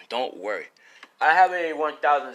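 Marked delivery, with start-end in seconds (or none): 0.1-0.7 softer, calmer don't worry; soft reassurance. Real, not acted. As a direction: settle them gently.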